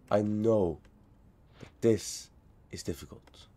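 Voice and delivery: hushed whisper to himself. Real, not acted. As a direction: whisper it under your breath. Whispering to himself mid-game.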